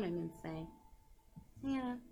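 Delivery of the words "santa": put-on sweet innocent child voice; sugary little kid pleading; fake innocence. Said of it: "this innocent child voice".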